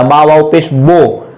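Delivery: slow letter-by-letter spelling ending on बो; teacher spelling a word aloud for students; spelled-out bo. Shown as a demonstration. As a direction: sound out बा वाव पेश, then land a long "bo" on बो. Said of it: "बो की तरह था".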